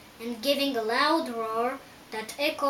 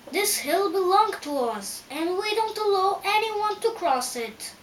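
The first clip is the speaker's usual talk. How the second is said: raised, louder voice forbidding passage; challenging voice; 7 semitones higher, 4 dB louder than usual. A narrator's reading. Hill guard tells travelers they cannot cross, challenging. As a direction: stand your ground and forbid the crossing. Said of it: "the same voice said".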